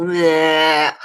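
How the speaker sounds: a short mock "bleh" with the tongue out; a lightly done gross licking noise; imitated tongue lick. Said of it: "getting his tongue and going".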